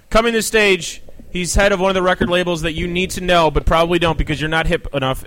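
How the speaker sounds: live intro building to the name; stage announcer. Real, not acted. Host brings a label head to the stage, announcer style. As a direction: announce a guest to the crowd.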